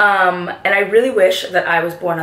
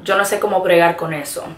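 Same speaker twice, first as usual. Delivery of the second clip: Puerto Rican accent; much faster than usual. Shown as a demonstration. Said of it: "So, like".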